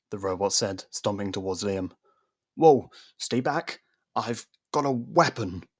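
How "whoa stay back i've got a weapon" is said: loud, slow startled warning; alarmed. Acted. Liam facing the robot, loud startled warning. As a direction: back off a threat. Robot stomping toward him.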